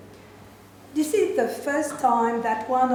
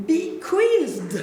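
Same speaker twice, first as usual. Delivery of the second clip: "bequeathed" said higher and louder, savoured as a fancy word; showcased word; 6 semitones higher, 5 dB louder than usual. Acted. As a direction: present "bequeathed" with a raised, loud flourish. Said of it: "nice word coming".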